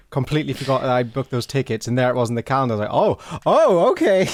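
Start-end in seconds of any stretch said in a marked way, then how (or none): 2.9-4.3 higher, louder mock realisation; pitched-up comic "oh" of surprise; retold surprise. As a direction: act out a happy discovery. Retelling own surprise at calendar.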